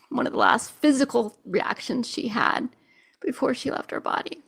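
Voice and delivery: real emotion, words falling to a near whisper; choked-up. Real, not acted. Medium recalling her mother's last moments, choked whisper. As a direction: barely voice it as tears come. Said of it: "I'm getting so emotional".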